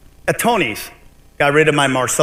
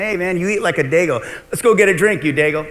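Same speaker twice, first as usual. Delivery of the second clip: imitating a pal's casual teasing; chummy, lightly acted banter; friendly ribbing; 3 semitones higher than usual. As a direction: toss it out like an invitation to a buddy. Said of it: "a little different than Tony Choiano coming to me".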